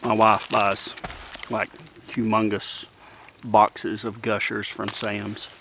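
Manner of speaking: slow, talking through candy; chewing between words; mouth full. Real, not acted. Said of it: "talking with my mouth full".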